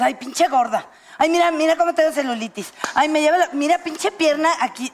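mock self-criticism. Woman scolding herself in the mirror, mild mock whine. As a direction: lightly act out moaning about your own legs. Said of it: "cuando te ves al espejo y dices".

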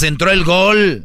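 gol gritado, más alto y lento; grítalo como festejo de gol; grito de gol. Shown as a demonstration. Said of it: "ahí es donde gritas". (grito de gol lento y más agudo)

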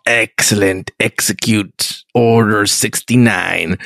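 slow, low villain emperor giving an order. Retold or imitated. Podcaster mimics the Emperor giving the order, slow and low. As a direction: drag it out low like a sinister emperor. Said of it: "me doing voices".

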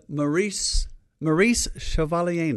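hammed-up French name; lightly put-on French accent; mock French accent. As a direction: say it like a stage Frenchman. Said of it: "doing a Frenchman".

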